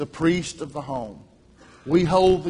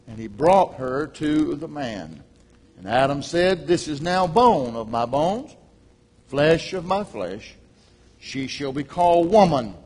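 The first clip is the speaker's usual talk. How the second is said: scripture reading. Acted. Preacher reading Genesis to the congregation, solemn. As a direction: read the verses to the church with weight.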